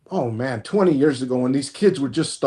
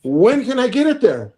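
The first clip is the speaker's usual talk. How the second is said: eager question broken by a laugh; laughing eagerly; 7 semitones higher than usual. Retold or imitated. Telling friends about the cheap mechanic, asking through a laugh.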